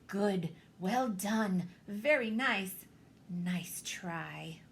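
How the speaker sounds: slow, fond teacher praise; praising mother. Acted. Missus Poodle praising her puppies, slow and fond. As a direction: praise each pup like a proud mother.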